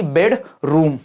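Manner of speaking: बेडरूम slowly, in two separate parts; syllable stress demo. Shown as a demonstration. Teacher giving an example of stress, word in two parts. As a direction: set bed apart from room in बेडरूम. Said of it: "spoken with a greater degree of force".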